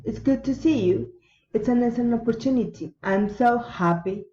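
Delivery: exclamations dropping on "you", "opportunity", "happy"; exclaim, then bring "you", "opportunity", "happy" down; falling exclamatory intonation. Shown as a demonstration. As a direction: let "you", "opportunity" and "happy" fall away. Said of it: "falling intonation".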